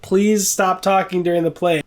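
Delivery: nicer. Retold or imitated. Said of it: "But nicer".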